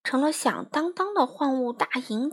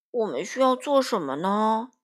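gruff. Acted. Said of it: "艾迪熊嗡声嗡气地问道".

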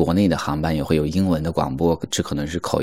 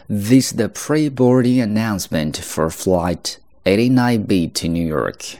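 airport announcement; 3 semitones higher than usual. Shown as a demonstration. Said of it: "我们来看一下这儿的一个事例".

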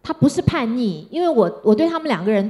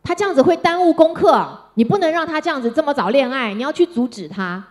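mild big brother; 5 semitones higher than usual. Retold or imitated. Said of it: "他哥哥就跟我说".

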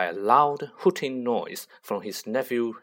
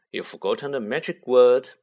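irritable; 5 dB louder than usual. Acted. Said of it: "said Harry irritably".

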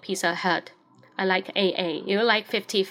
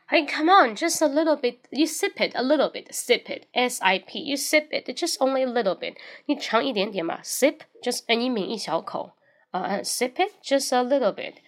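coaxing; 3 semitones higher than usual. Retold or imitated. Coaxing friend to drink.

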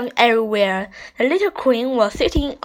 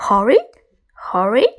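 indignant louder echo of the word, rising; snapping; 3 dB louder than usual. A narrator's reading. Queen repeats Chip's word back at him, snapping. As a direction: snap the word back in offence. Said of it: "snapped the Little Queen".

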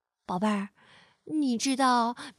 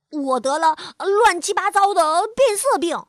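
loud bluff; 3 semitones higher, 5 dB louder than usual. Acted. Chameleon bluffs.

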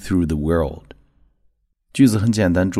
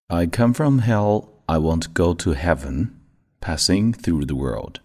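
quicker read-through at near normal speed; slightly faster practice read; a bit faster. Shown as a demonstration. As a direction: pick up the pace a little. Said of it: "速度稍微快一点".

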